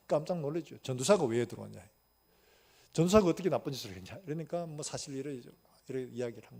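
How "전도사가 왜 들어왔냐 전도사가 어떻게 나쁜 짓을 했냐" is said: astonished cellmate. Retold or imitated. Shocked cellmate.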